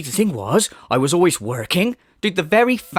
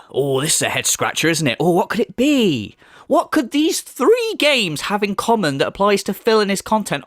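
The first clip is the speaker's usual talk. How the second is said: sarcastic mock puzzlement; 2 semitones higher than usual.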